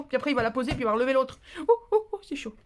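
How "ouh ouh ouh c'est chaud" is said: mock flamingo yelping ouh on a hot floor; comic hot-footed ouh ouh, higher; voicing the flamingo. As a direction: play a flamingo hopping off hot ground. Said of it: "le sol est chaud".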